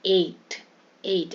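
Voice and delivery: एट with a single "ay" sound; एट on one ay, not pulled; unstretched vowel. Shown as a demonstration. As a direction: say एट without drawing it out. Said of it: "यहाँ पे खींच नहीं रहे हम".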